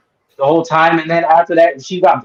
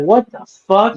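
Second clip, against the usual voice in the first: retold disbelief; 5 semitones higher than usual. Retold shocked reaction to the scene.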